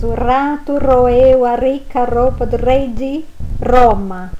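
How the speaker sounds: strong rolled r's in O rato roeu a rica roupa do rei de Roma; trava-línguas com força; tongue twister. Shown as a demonstration. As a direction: roll every r with force. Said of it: "ele deve ser lido com força".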